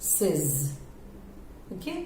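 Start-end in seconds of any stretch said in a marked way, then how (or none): 0.0-0.7 सेज as a lower "sez"; short-vowel says. Shown as a demonstration. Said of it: "सेज बोला जाता है".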